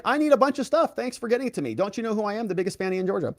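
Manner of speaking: high mock diva voice, fading down; lightly voiced entitled diva; mocking Fannie. Host mocks Fannie strutting into court, high mock diva voice. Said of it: "She walked in".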